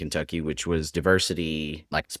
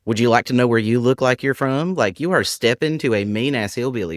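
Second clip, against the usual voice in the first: louder, higher mock outrage; mock indignant; 6 semitones higher, 5 dB louder than usual. Hillbilly answering a kid back, mock indignant. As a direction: bristle as if ready to bust their balls. Imagined comeback to rude kid.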